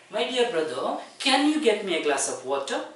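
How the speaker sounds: gentle, courteous asking; polite request. Shown as a demonstration. Teacher showing students a polite request to a younger brother. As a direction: ask it kindly, as a favour. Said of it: "See, it is very polite".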